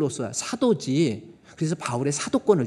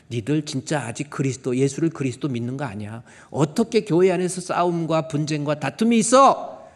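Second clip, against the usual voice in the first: rebuking; 4 dB louder than usual. Retold or imitated. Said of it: "계속 책망이에요".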